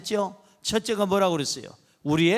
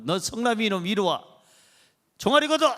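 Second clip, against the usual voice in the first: angry father. Retold or imitated. Father summoning his son for punishment, imitated anger. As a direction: bark the last order like a cross father. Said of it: "화가 잔뜩 났어요".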